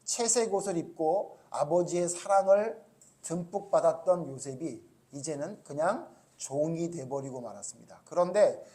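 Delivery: formal, measured spoken prayer; leading a congregation in prayer. Real, not acted. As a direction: address God earnestly and evenly. Leads closing prayer.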